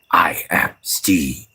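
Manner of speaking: voiceless whisper of the name line. Shown as a demonstration. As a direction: hush it to a whisper. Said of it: "in this case, it'd be more like".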